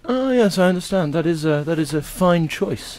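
posh English. Acted. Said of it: "Queen's English".

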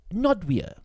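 put-on young woman's voice. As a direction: bite back the questions politely. Grace names her village.

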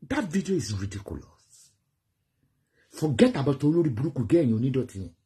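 normal talking voice

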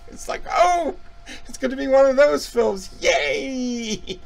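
high mock-cheerful yay; sarcastic. Real, not acted. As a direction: fake delight at a grim film. Sarcastic aside on the film.

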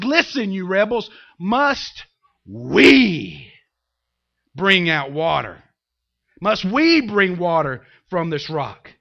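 acted indignant challenge, drawn out; preacher playing an exasperated prophet; angry Moses. Moses challenging the rebels at the rock, mad and emphatic. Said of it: "He's so mad".

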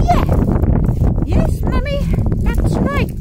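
put-on high squeaky little girl voice answering Mummy; voicing her daughter in a tiny high voice; child's voice. Mum voicing daughter Gia answering her, high and squeaky. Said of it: "is that how you speak, Gia?".

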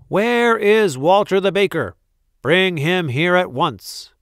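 high, loud, imperious demand; roaring. A narrator's reading. Angry Duke summons the baker, roaring. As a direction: bellow an order for the culprit. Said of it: "roared the Duke".

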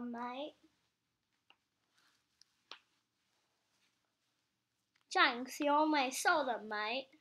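lightly put-on British accent, saying mate; a playful stab at a British accent; mock British accent. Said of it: "the British is cooler accents".

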